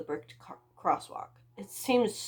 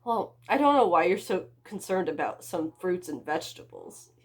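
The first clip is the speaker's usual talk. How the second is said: smirking; 5 dB louder than usual. Acted. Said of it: "I smirked".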